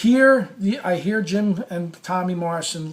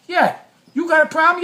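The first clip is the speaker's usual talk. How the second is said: much higher, louder mock tough-guy bark; cameraman's challenge; 11 semitones higher, 6 dB louder than usual. The chiseled camera guy barks back at him, loud and high. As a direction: play the big guy calling his bluff, loud and high.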